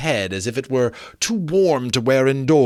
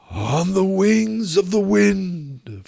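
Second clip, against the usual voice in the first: ghost lamenting; 8 semitones higher, slower than usual. Acted. Marley's ghost explaining his doom, slow wailing ghost voice. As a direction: mourn it like a doomed spirit.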